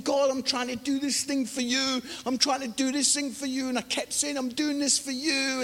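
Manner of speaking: softly re-enacted plea to God; retold pleading prayer. Terrified preacher praying in the cupboard, retold pleading. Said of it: "I'm crying up to God".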